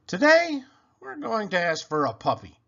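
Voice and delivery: high, loud, bursting with the big plan; excited announcement. Acted. Child telling the listener about the day's puppy mission, excitedly. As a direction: announce it like the best news ever.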